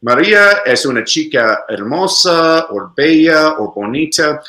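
Maria es una chica hermosa in Spanish pronunciation. Shown as a demonstration. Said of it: "In Spanish, we'd say".

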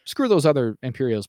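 root for her like a fan in the stands; mock fan cheer. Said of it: "at first you are like".

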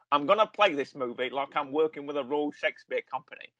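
lightly voiced film star impression; Michael Caine. Podcaster quotes the actor pitching Scrooge, lightly impersonated. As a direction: put on a hint of his famous voice. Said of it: "pull out my Michael Caine impression".

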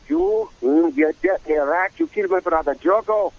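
a roommate's quick Cagney knockoff; Jimmy Cagney impression. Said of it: "So he did his impression".

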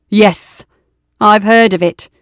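skeptical. Acted. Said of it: "Brahms interrupted skeptically".

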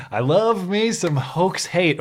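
slow, savoring the words; sarcastic relish. Acted. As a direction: draw it out with mock delight.

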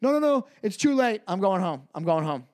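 a hint of a cabbie shutting it down; cabbie refusing. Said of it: "And he goes".

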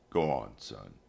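soft, low gentle father. A narrator's reading. Papa telling his son to go on, gentle. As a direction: gently send the boy off. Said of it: "said Papa gently".

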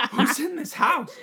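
high, slow scared call; high frightened call into the dark; mock fear. Scared by noise in house.

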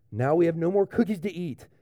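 mildly sad toad, after a sigh; a touch of storybook sadness; lightly acted disappointment after a sigh. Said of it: "Toad says, very sadly".

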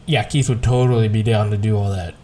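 dry, deadpan sarcasm; sarcastic. Real, not acted. Joking to a co-host about friend Keith, dry sarcastic. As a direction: say it like you mean the opposite. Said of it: "and that's sarcasm".

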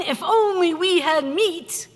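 lightly voiced people moaning for meat; a hint of weepy complaint; mock whiny crying.

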